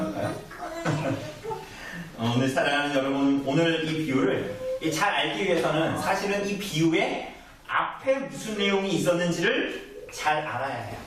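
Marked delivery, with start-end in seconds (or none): none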